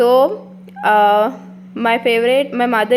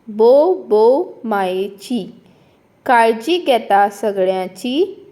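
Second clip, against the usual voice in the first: poem recitation. Shown as a demonstration. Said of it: "हांव पयलीं ताचें वाचन करतलें".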